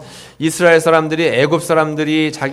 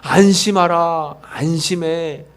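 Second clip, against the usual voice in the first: tender Jesus; slower than usual. Acted. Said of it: "이야기하시는 겁니다".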